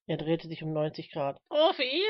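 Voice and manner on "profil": insistent questioning. Acted. Smith presents himself for recognition.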